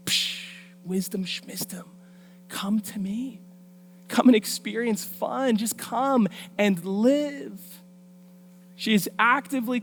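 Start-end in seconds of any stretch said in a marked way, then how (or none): 0.1-1.8 soft, mocking brush-off; dismissive scoff. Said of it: "the woman who's like". 2.5-7.6 lightly voiced, drawn-out enticement; luring temptress. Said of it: "luring and enticing us".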